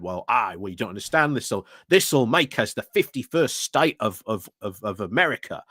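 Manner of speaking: badly faked Australian voice; terrible Australian accent. Quoting a former prime minister in a terrible Australian accent. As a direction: put on a poor Australian accent, lightly. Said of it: "putting on a terrible, terrible Australian accent".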